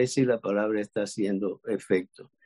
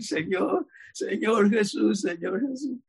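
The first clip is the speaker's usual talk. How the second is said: slow, higher call on the Lord; mock invocation; 8 semitones higher than usual. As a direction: call out "Señor Jesús" like a new believer praying. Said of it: "empieza a invocar".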